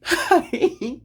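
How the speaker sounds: high, loud mock-cheery hi; put-on greeting. Waving back at the friends who passed her, put-on cheery greeting.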